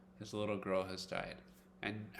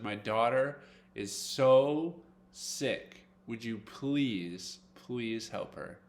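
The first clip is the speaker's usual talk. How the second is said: slow, begging plea for a sick daughter; pleading father; slower than usual. Acted. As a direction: beg Jesus slowly, voice sinking at the end. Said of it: "he runs up to Jesus and he says".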